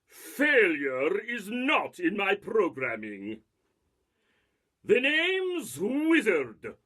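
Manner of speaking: Rasputin-inspired villain. Acted. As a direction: gloat like a Russian mystic villain. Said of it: "My inspiration for, for this was Rasputin".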